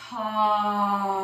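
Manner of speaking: long open-mouthed exhale sigh; dramatic sigh. Shown as a demonstration. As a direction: let out a big audible sigh. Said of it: "Big sigh, release".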